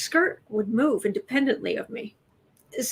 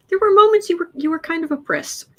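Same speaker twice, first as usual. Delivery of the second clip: imitating mom; 7 semitones higher, 4 dB louder than usual. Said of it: "And she said".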